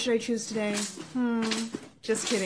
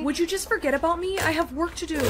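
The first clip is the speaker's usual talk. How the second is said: irritated; 5 semitones higher than usual. Acted. Snaps at parent about brother.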